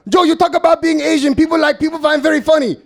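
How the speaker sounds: high put-on Asian dialect imitation; dad in a mocking Asian dialect. Dad urging Joe to joke about being Asian, in a mock Asian dialect. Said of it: "an Asian dialect voice".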